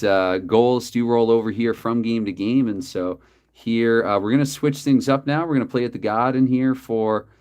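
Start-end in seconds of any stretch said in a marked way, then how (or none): 5.8-6.5 light attempt at a Boston accent; Boston-accented "Garden", lightly put on. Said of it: "sorry if that accent is lame".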